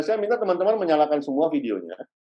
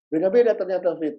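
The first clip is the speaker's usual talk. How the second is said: surprised discovery; 6 semitones higher, 4 dB louder than usual. Retold or imitated. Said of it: "dia bilang".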